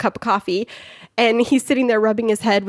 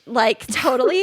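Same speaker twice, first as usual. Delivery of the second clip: put-on Valley girl voice. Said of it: "talk like a Valley girl".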